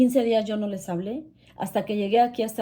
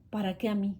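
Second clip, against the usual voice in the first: "¿Para qué a mí?" asked softly and evenly; calm reflective question; 6 dB quieter than usual. Shown as a demonstration. Looking back now, she asks herself softly and calmly. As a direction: turn it into a quiet, searching question. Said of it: "Y ahora pregúntome yo".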